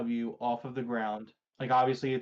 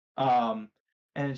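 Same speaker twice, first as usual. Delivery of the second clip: plain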